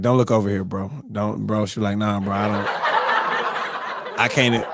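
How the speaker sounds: quiet, slow laughing plea; wife laughing. Retold or imitated. His wife avoiding his eyes, quiet laughing plea. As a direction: beg through giggles.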